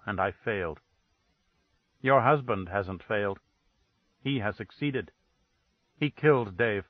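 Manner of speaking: icy, level accusation; dead flat tone. Acted. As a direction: say it cold and dead, no colour at all. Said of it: "dead, flat tone that froze the air".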